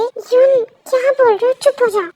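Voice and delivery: loud, high-pitched reprimand; acted alarmed telling-off; scolding. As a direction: hush your partner sharply and loudly. Partner scolds the angry parent.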